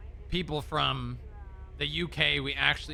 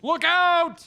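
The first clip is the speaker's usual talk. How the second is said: sharp yell of alarm, much higher and louder; shouted warning; 14 semitones higher, 9 dB louder than usual. Real, not acted. Driver yelling at partner to look out. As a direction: yell it to stop the crash. Sudden danger while driving.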